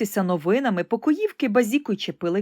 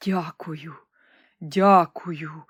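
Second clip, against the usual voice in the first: grateful thanks; 3 semitones lower, much slower than usual. Acted. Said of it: "промовив імператор".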